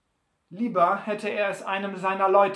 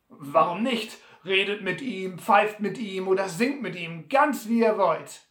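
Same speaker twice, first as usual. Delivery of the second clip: Butler spöttisch; 2 semitones higher, 5 dB louder than usual. Acted.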